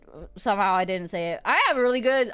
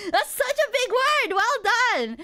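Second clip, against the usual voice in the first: sarcastic praise; 12 semitones higher, slower than usual. Retold or imitated. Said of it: "and it started clapping".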